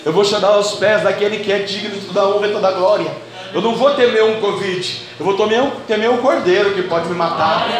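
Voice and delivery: loud, driving sermon; fervent preaching. Acted. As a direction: preach it with fire. Preaching at full force.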